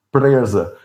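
"presa" with a tongue-tied r; imitated tongue-tie. Shown as a demonstration. Showing his childhood mispronunciation, "presa" tongue-tied. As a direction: say "presa" as if your tongue were stuck. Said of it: "como se eu tivesse a língua presa".

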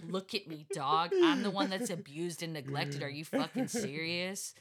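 loud, indignant mock outburst; indignant retort. Mother retelling her comeback to the CPS worker, indignant.

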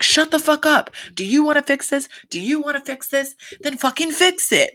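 mock snapping. Jenny telling Jen to fix it, mock angry. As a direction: throw the line at her like you've had enough.

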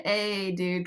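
casual Californian dude accent; California accent. Shown as a demonstration. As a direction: lightly put on a California dude voice. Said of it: "like, a California".

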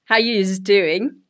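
put-on slow, drawn-out Queensland accent greeting. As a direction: stretch it out like a Queensland local. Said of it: "if you hear an Australian go".

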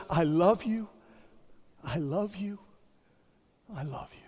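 fading tender words. Retold or imitated. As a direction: let it fade away. Jesus speaking from the cross.

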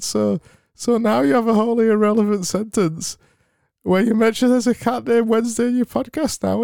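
high, bright put-on cheer; sugary happy podcast read; fake happy read. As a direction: read it back in a beaming host voice. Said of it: "read your sentence out".

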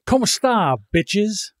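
a brash Spanish hello to the co-host; Deuce's greeting. Retold or imitated. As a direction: throw it out like an old catchphrase. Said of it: "Deuce used to always".

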